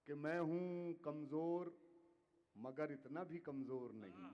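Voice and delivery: measured, declaiming poetry to audience; ghazal recitation. Acted. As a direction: recite each couplet with weight. Poet recites couplet.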